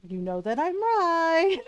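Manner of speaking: drawn-out singsong, pitch lifted; slow, high know-it-all tease; knowing coaxing. Retold or imitated. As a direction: stretch it out, teasingly sure. Coaxing hungry husband to eat.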